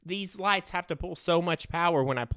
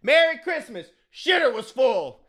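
Cousin Eddie impression; 9 semitones higher, 4 dB louder than usual. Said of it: "he goes".

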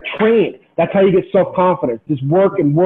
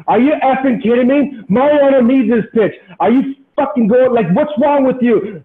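retold cussing out; 4 semitones higher than usual. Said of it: "He's cussing out the umpire".

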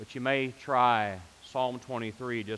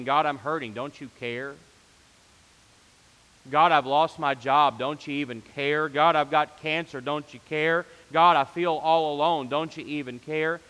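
pleading prayer; 4 dB louder than usual. Retold or imitated. Voicing a hurting person's prayer.

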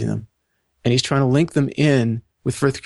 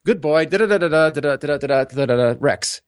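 imitating talking to dog; 2 semitones higher than usual. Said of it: "what we say".

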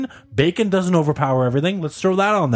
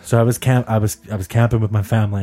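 lightly lowered, calm storyteller voice; calm storytelling tone; 5 semitones lower than usual. Pretend. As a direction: tell it like a soothing bedtime story. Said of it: "calm tone I'm speaking in".

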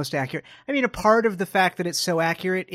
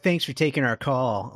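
mildly smug imitation; a touch of self-important smarm; smarmy, smug; 2 semitones lower than usual. Host imitating her smugly thanking Bucky for the call, lightly smarmy. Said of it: "all smarmy and self-important and smug about it".

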